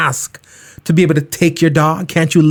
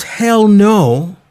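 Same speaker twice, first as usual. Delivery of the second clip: typed reply; 6 semitones higher than usual. Retold or imitated. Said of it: "I typed".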